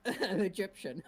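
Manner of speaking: Sean Connery voice. Pretend. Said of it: "You did it so well".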